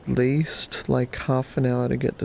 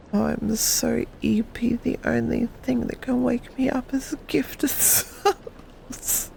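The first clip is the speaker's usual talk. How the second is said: high playful voice; 8 semitones higher than usual. Real, not acted.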